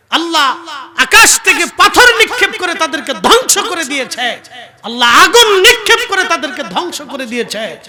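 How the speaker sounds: loud, high preacher's retelling of an angry rebuke; angry prophet's rebuke. Retold or imitated. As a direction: thunder out the quoted reproach at full voice. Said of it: "রাগান্বিত হয়ে বলেন". (রাগান্বিত কণ্ঠে উঁচু গলায় ধমকের অভিনয়)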